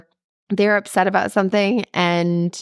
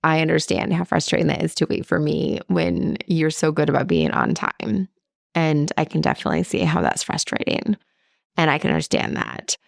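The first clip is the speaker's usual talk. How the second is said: sincere apology to husband; 2 semitones lower than usual. Shown as a demonstration. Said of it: "to be able to say".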